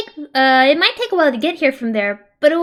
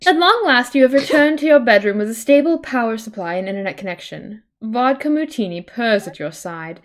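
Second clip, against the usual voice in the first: steady second-person storytelling read; game narration; 2 semitones lower than usual. Acted. Reading the adventure's text to a friend, narrator voice.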